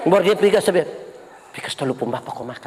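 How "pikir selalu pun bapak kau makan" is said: low, very soft, quick grumble; muttered retort. Acted. Pastor mimicking a grumbling spouse at home, muttered retort. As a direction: mutter it under the breath in imitation.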